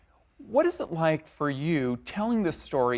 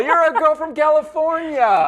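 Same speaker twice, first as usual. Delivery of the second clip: put-on teasing California girl; 13 semitones higher, 12 dB louder than usual. Host teases guest about accent.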